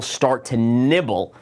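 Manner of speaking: nibble slowed and leaned on; stress on nibble. Shown as a demonstration. Trader warning viewers, stressing "nibble" slowly. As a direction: draw out "nibble" to warn against going all in. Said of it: "And I stress the word nibble".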